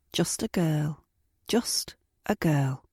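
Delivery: soft whispered echo. Retold or imitated. His cruel words echoing in her head, whispered. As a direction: let it drift like a haunting memory.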